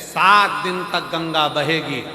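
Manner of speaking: preaching holy man. Acted. Maharaj addressing his congregation, grand preaching delivery. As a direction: proclaim it like a guru to a crowd. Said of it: "प्रवचन में कह रहे थे".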